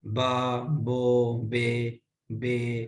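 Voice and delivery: बा बो बे बे said slowly and separately; syllable drill. Shown as a demonstration. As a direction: drill each syllable one at a time. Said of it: "हम मजहूल क- पढ़ते हैं हरकत को".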